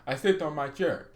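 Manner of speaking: hammed-up Italian mafia boss accent in English; a lightly done Italian godfather, lazy and menacing; playful Italian-accented godfather, only lightly put on; mock Italian English. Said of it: "speaking, uh, Italian English".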